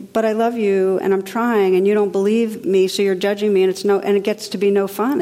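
imitating an upset, protesting husband; mildly upset husband. Husband defending himself to his judging wife, mildly upset retelling. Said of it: "he'd get upset and he'd say".

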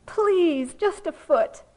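high, loud mock pleading; Calvin, gritted teeth. Cartoon kid begging the sky for snow, strained mock plea. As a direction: beg through gritted teeth, stretching each please. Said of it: "gritting his teeth and he says".

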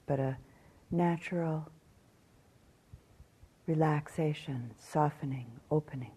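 calm meditation guidance with long pauses; measured phrases, spaced out by silence; guided meditation. Acted. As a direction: guide them gently through the body, leaving long silences.

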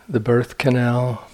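unhurried phrases with long, spacious pauses; guided meditation. Acted. Meditation teacher guiding sitters to imagine being born, in guided meditation delivery. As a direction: lead them gently, leaving silence between phrases.

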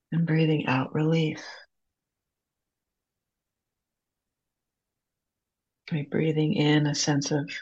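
unhurried guided breathing, long pauses between phrases; calm meditation guide, leaving room to breathe. Acted. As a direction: lead a group gently through each breath.

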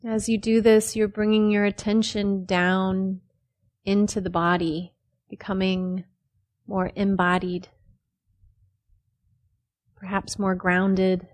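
unhurried phrases with long pauses between; measured meditation-teacher delivery; guided meditation. Real, not acted. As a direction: calmly guide them into the body, leaving space after each phrase.

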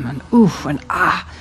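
hum, grunt and sighed release; happy body sounds. Shown as a demonstration. Teacher showing the class body sounds, grunts and sighs. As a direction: let each body noise out freely. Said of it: "the body is really happy when it goes".

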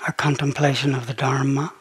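measured meditation voice with long pauses; unhurried, settled phrases, leaving space after each; guided contemplation. Real, not acted. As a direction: lead listeners gently into contemplation. Leads a slow contemplation.

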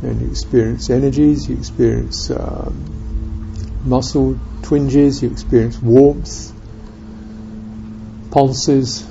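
unhurried meditation guidance with long silences; calm, spacious guiding, leaving room after each phrase; guided meditation. Real, not acted. Teacher guiding listeners to experience presence in the body, guided meditation.

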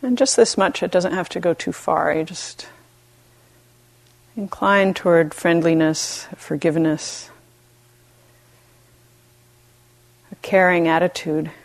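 gentle meditation guidance with long pauses; unhurried, even voice, leaving space between phrases; guided meditation. Real, not acted. Teacher guiding retreatants to befriend themselves, calm meditation voice.

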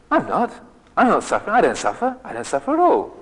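high, huffy protest of not suffering; indignant denial. Retold or imitated. Young traveller to the novice, offended high protest. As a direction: bristle as if insulted by the idea. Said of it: "you could just hear this tone in my voice".

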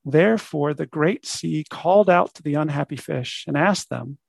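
measured storybook reading; story narration. Acted. Teacher reads a fish fable to students, story narration. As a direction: tell it as a fable, phrase by phrase.

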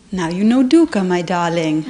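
lightly voiced wise teacher, smiling; gentle teacher's voice. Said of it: "And she said".

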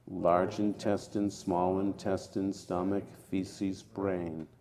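measured, even list recitation; group recitation. Real, not acted. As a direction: recite the list steadily, like a meditation chant. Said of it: "let us recite five times in the forward position out loud".

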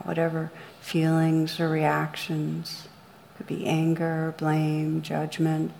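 calm, measured meditation guide with long pauses; guided meditation. Real, not acted. Meditation teacher leading listeners through rain on blame, guided meditation. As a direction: guide listeners gently inward, leaving room between phrases.

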